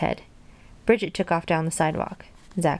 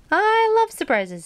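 high, drawn-out squeal of delight; thrilled, stretching the words out; 14 semitones higher, 4 dB louder, slower than usual. Acted. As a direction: gush it slowly, way up high. Delighted alligator at promised surprise.

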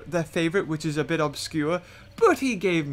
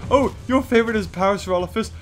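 fast, scoffing know-it-all, a bit louder; mock snob; 2 semitones lower, 3 dB louder than usual. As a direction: parody a sneering dinosaur snob. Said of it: "Almost like".

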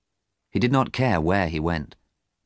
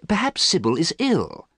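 kindly, high-pitched suggestion; kind, high-voiced excuse for a friend; 11 semitones higher than usual. A narrator's reading. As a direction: offer it gently, pitched well up. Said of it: "Basil said kindly".

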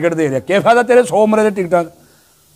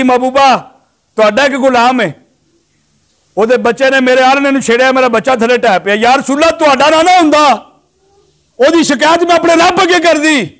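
acted plea climbing higher, no sobs; impassioned tearful plea; 4 semitones higher than usual. Mother bird complains to the Prophet about her chick, impassioned plea. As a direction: plead as the wronged mother bird, pitch rising. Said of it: "ਇਤਨਾ ਰੋਂਦੀ ਹੈ".

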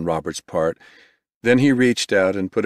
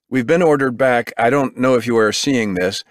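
alarmed reporter; 5 semitones higher, 4 dB louder than usual. Acted. Reporter pushed back from bomb.

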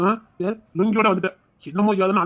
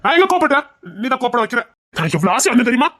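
raised, higher, heated complaint; angry; 6 semitones higher than usual. Acted. Husband scolding his wife for avoiding him, angry. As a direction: vent the frustration hotly. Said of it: "எதுக்கு நீங்க கோவப்படுறீங்க?".

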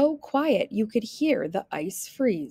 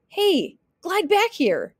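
high, raised calling voice; yelling; 9 semitones higher, 4 dB louder than usual. A narrator's reading. Wolf chases Little Red across the ice, yelling. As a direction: yell after someone getting away. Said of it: "yelled the wolf".

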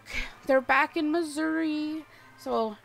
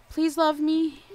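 pleading to game characters; mock begging; 4 semitones higher than usual. Real, not acted. Streamer begging her villagers to love her, mock pleading. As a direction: beg playfully. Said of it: "begging my Animal Crossing characters".

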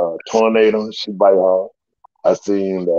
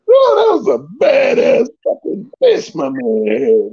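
excited outburst; 13 semitones higher than usual. Real, not acted. Excited retelling of dog fight.

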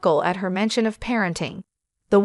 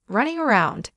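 plain reading voice

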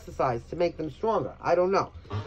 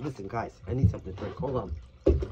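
after a coughing fit; 8 semitones lower, 4 dB quieter than usual. Real, not acted. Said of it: "I'm choking to death".

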